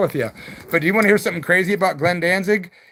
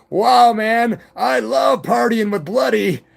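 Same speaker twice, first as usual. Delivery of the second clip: imitating guitar player; 6 semitones higher, 4 dB louder, slower than usual. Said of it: "my guitar player sits up and goes".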